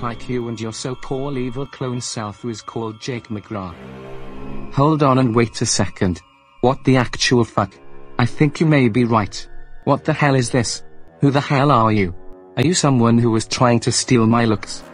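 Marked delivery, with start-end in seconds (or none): 4.7-10.8 much louder, shocked and furious; angry shouting. Acted. Doubles meet, quarrel begins. 11.2-12.1 Who the hell are you? yelled much louder; angry shout. Acted. Confronting his look-alike. 12.6-14.8 much louder, threatening rant; angry shouting. Acted. Acted quarrel, threats and challenge.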